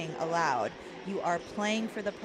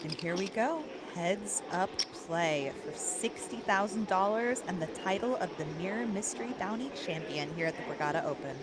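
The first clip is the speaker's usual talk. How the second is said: polished, friendly phone-operator voice; customer service voice. Acted. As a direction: sound like a hotel receptionist on the phone. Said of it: "uh, customer service voice then".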